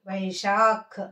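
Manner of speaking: "వైశాఖ్" with a puff of air on the final kh; aspirated kh. Shown as a demonstration. Teacher repeats the model word, "వైశాఖ్" with aspirated final kh. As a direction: release breath at the end of "వైశాఖ్". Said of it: "గాలి వదులుతూ పలకాలి".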